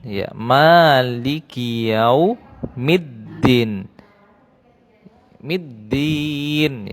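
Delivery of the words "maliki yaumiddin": Maliki with the ma held long. Shown as a demonstration. Teacher stresses the long ma for pupils. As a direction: stretch the ma in Maliki slowly. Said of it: "Perhatikan panjangnya di ma".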